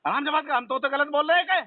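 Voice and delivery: high-pitched, indignant protest; irritated demand. Real, not acted. Irritated customer demands calmer talk.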